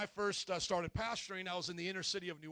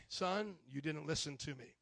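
gentle rebuke; 4 semitones lower, 4 dB quieter than usual. Retold or imitated. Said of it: "God's way of saying".

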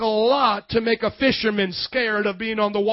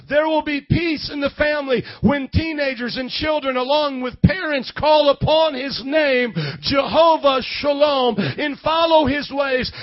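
raised, insistent preacher's voice; preaching; 4 semitones higher than usual. Real, not acted. Preacher promising peace to troubled families, preaching with force. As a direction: preach it higher, driving each phrase home.

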